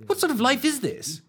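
a shocked, incredulous cry at the screen; mock-horrified squeal; appalled disbelief. Appalled by the sad film.

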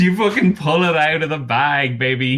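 high, loud excited announcement; stretched, emphatic delight. Real, not acted. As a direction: celebrate the player's lucky success. Game master celebrates successful roll.

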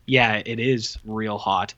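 slow, lazy mock agreement; mock slow reply. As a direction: drag it out like a dull action hero. Mocking movie dialogue.

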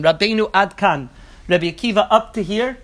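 "up to here?" with a rising question tune; read as a question. Shown as a demonstration. Students asking Rabbi Akiva whether it goes this far, rising question. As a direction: end "up to here?" on a lift, asking in disbelief. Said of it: "the students are read as a question".

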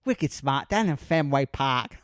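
mock Boston accent; Boston accent like Danny Zuko. Joking about Fenway Park in a mock Boston accent. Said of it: "sound like, uh, Danny Zuko".

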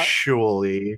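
slow, drawn-out know-it-all actually; nerd voice. Shown as a demonstration. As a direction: stretch it like a smug nerd. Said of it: "to add in the little nerd voice there".

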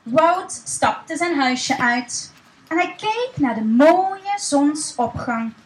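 put-on slow, gentle reading to children; storytelling voice. A narrator's reading. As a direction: read it like a bedtime story for little ones. (rustig voorleesstem voor kinderen)

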